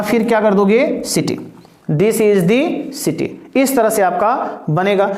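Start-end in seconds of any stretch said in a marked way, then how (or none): 1.9-3.3 slow, clearly spaced words; slow answer read-out; slow dictation. Shown as a demonstration. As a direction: read the answer slowly for copying. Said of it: "reads answer slowly".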